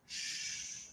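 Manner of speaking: whispered shh, no voice at all; hushing shh. Retold or imitated. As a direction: hush him like someone might overhear. Friend hushing him at the door.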